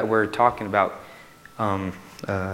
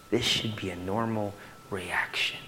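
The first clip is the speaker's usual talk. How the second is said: whisper; 2 semitones lower, 5 dB quieter than usual. Real, not acted. Soft closing point.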